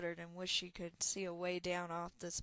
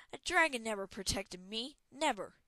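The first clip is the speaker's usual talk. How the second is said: bitter denial; 2 semitones higher, 6 dB louder than usual. Acted. Talon bitterly denies.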